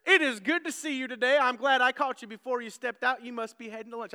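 imitating a brash Southern Texan salesman; hammed-up Southern salesman greeting; Southern accent. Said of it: "brash, Southern accent".

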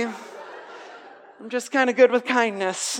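slow, giggly and carefree; a mocking preacher voices her breezy answer; airy laughing girl. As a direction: brush it off with a light laugh.

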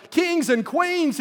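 high, slow call out to the kings and queens; rousing cry. Acted. Eagle calling to the kings and queens after landing, high rousing cry. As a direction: announce it high and drawn out. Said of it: "he cried".

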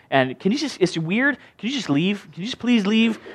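soft, low, halting and awkward; timid, understated pleading with little pauses; hesitant townspeople. Acted. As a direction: tiptoe awkwardly toward asking him to leave. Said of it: "they began to beg Jesus".

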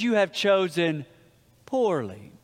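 lightly voiced grave old knight; a hint of the grave knight's verdict; solemn knight. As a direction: intone it like an ancient guardian. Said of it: "the knight looks at him and says".

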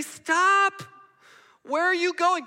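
high, loud cry of alarm; desperate shout. Pretend. Preacher shouting stop to a friend near a cliff, alarmed.

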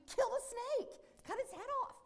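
high, loud insistent order; urgent demand. Retold or imitated. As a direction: shout the order at the neighbour. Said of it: "I'm like".

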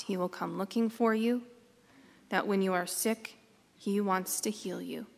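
measured, unhurried storytelling with pauses; guided meditation. Acted. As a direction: guide listeners gently into the scene.

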